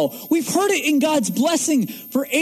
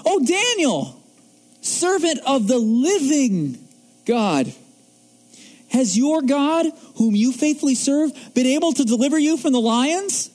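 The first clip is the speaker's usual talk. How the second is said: king calling out anxiously, a touch higher; quoted king's anxious cry; 3 semitones higher than usual. Retold or imitated. Preacher voicing the king calling to Daniel, mildly anxious. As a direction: plead lightly as the worried king. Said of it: "He cries out anxiously to God".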